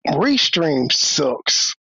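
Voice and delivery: slow, drawn out grumble; exasperated. Real, not acted. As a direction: drag it out in disgust. Frustrated at muted stream.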